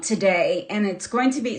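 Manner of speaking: hoarse, losing voice. Real, not acted. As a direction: voice giving out, hoarse and soft. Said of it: "see, I have no voice".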